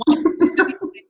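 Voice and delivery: breathless whisper, half to herself; whispered exasperation. Retold or imitated. Whispering in despair that her niece copies her. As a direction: mutter it in mock despair under your breath. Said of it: "I'm like".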